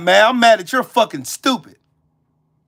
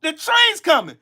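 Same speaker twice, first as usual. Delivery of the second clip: mock warning call; 6 semitones higher than usual. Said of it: "warning the motherfucker".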